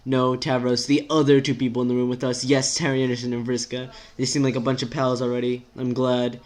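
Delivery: lightly voiced, exasperated rant; exasperated character. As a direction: vent the worries in an unbroken rush.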